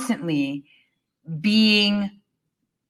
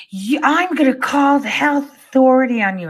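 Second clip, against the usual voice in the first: higher, pinched put-on voice of a busybody; imitating the older Karen; 7 semitones higher than usual. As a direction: mimic a self-righteous lady threatening. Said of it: "she turns around and tells her".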